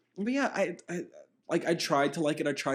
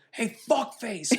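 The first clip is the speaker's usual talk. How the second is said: 1 imitating a cyclist's yell; 6 semitones higher, slower than usual. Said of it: "And he goes".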